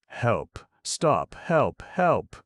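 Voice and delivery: rising loud high cries; screaming for help. A narrator's reading. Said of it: "screamed Randy".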